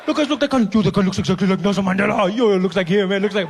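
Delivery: loud excited pointing out; excited spotting. Acted. Driver excitedly shows his passengers Mandela, loud. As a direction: shout it to your friends in the car.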